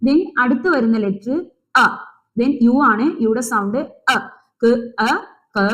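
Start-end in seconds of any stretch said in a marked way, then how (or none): 4.6-5.7 ക്, അ blended into a short ക; short sounds. Shown as a demonstration. Teacher showing pupils how sounds join, short unstretched ക. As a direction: sound out ക്, അ, then ക without stretching it. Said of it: "നീട്ടൂല ട്ടോ".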